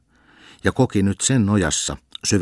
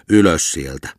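louder angry command; furious order; 5 dB louder than usual. Acted. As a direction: bark him awake. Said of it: "raivostui lukkari".

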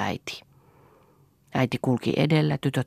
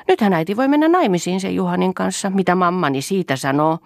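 very innocently; 7 semitones higher, 6 dB louder than usual. A narrator's reading. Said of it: "sanoi Toini hyvin viattomasti".

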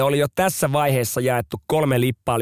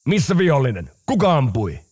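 calling out; 4 dB louder than usual. Retold or imitated. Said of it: "tulevat huutelemaan".

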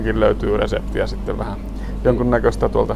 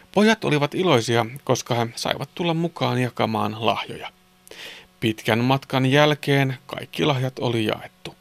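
put-on clear, measured children's story reading; story narration; 4 dB quieter than usual. A narrator's reading. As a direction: narrate a Christmas tale sentence by sentence. Reads a Christmas story. (selkeä joulusadun kerronta)

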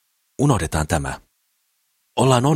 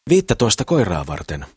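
exclaiming; 4 semitones higher than usual. Acted. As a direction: burst out with the number. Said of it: "huudahtaa Mikko Suomenvaara".

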